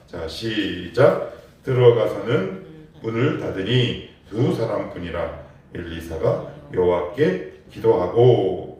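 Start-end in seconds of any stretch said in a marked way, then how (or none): 1.6-8.8 slow, measured reading of the verse aloud; scripture reading. Shown as a demonstration. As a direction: read it slowly with the congregation. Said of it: "같이 한번 읽어봅니다". (회중과 함께 천천히 성경 봉독)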